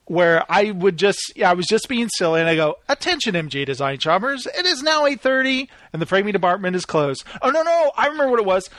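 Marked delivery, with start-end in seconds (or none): 2.9-7.2 lightly voiced PA announcer, rising on the hours; a hint of a bored PA announcer; mock store announcer. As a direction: play the goofy store intercom voice. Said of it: "'cause I would do that voice".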